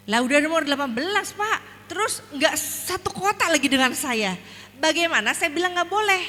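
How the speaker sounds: high, loud protest; exasperated refusal; indignant objection. Retold or imitated. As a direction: object firmly as a worried parent, pitch climbing. Acts out her objection to husband.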